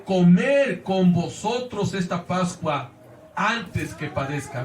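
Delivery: slow, emphatic scripture quotation; exclamatory quote. Retold or imitated. Preacher quoting Jesus's longing for Passover, mildly exclamatory. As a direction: proclaim it slowly, letting it settle at the end. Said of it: "en una forma exclamativa".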